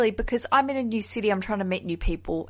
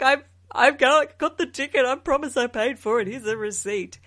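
mock panic; 3 semitones higher than usual. Host imitating her flustered plea to the instructor, mock panic. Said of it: "So I'm panicking".

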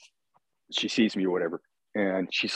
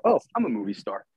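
deadpan joke. Retold or imitated. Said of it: "it's clearly a joke".

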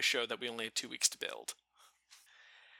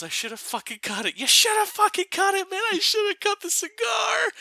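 put-on a rough Northern Scottish accent, yelled much higher and louder; Northern Scottish shout; 10 dB louder than usual. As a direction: bellow it like an angry Scotsman at a funeral. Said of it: "he just went Northern Scottish".

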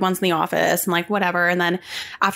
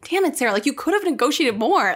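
higher, exasperated telling-off of oneself; mock self-scolding; 6 semitones higher than usual. Scolding oneself for not negotiating, mock exasperation. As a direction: playfully kick yourself, pitch raised.

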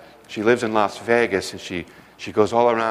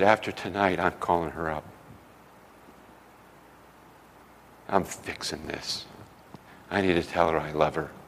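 tearful resolve; 5 semitones lower, 8 dB quieter than usual. Retold or imitated. Pastor resolving through tears.

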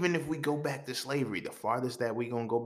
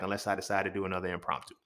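whispered aside; 3 semitones lower, 5 dB quieter, faster than usual. Real, not acted. Mumbled aside at sign-off.

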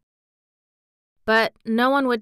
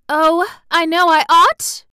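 high, loud, slow anguished cry; distressed cry; 9 semitones higher, 11 dB louder than usual. Acted. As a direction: cry out in regret and fear. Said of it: "she cried".

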